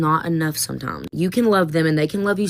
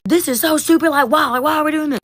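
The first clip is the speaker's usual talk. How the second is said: much higher, louder mock teen whine; whiny student complaint; 10 semitones higher, 4 dB louder than usual. Teacher imitating kids yelling that the quiz is stupid. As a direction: groan it like an annoyed teen. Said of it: "yelling at me".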